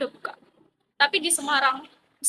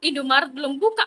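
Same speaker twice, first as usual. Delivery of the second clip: retold surprise; 5 semitones higher, 4 dB louder than usual. Retelling shock at closed shop.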